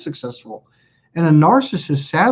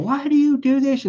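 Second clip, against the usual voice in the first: higher exasperated question; 10 semitones higher than usual. Retold or imitated. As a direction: ask it again, deflated. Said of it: "You know".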